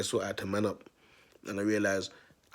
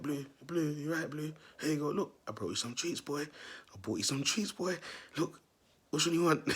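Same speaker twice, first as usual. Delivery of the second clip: coaxing the dog; 5 semitones higher than usual. Retold or imitated. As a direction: sweet-talk the dog with treats. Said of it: "I'm like".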